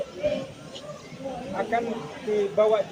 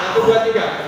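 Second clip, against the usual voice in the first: loud barked count; shouted drill count; 6 dB louder than usual. Real, not acted. Drill leader shouting the count to the squad.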